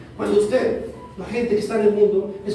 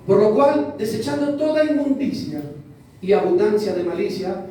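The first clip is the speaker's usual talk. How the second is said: solemn Bible reading; scripture reading. Acted. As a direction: read the verse with weight. Reads the verse aloud.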